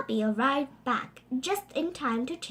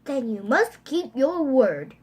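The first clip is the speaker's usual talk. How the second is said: mild bellow; 6 dB louder than usual. Acted. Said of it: "bellowed the king".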